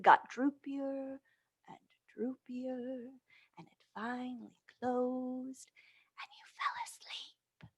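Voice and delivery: slow, sinking from soft voice into a whisper; slow fade into a sleepy whisper; fading to a whisper. Acted. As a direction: let the voice drift off to sleep. Lullaby until eyelid closes.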